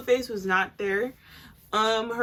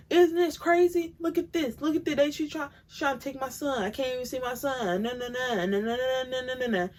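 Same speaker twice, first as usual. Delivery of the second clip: mock a rapper; 3 semitones higher than usual. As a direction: imitate him pleading at the camera, pitched up. Mocking a rapper filming his baby mama.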